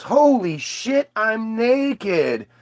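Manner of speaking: slow amazed realization; dawning shock, drawn out; slow stunned revelation; Eve realizing. Retold or imitated. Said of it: "comes back down and goes".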